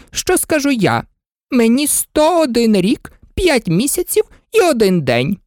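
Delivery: high, fluttering queen pleading; fussy queen. A narrator's reading. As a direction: coax her high and anxiously out of tears. Queen voice in story.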